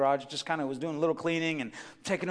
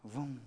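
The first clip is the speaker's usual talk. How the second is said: engine vroom; 5 semitones lower, 16 dB quieter than usual. Retold or imitated. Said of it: "I start the car".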